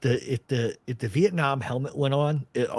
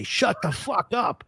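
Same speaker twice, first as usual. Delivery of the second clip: slow, higher-pitched mock fury; exasperated dad impression, raised pitch, drawn out; retold angry order; 7 semitones higher, slower than usual. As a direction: draw out each word as an imitated fed-up father. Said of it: "come out with his Vietnam helmet on and say".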